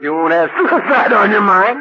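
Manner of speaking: real laughter breaking into the words; laughing through the line. Real, not acted. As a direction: crack up while delivering the punchline. Punchline said while laughing.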